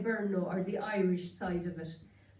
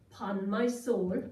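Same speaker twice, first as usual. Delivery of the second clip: put-on old people's saying; slower than usual. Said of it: "they'd be saying".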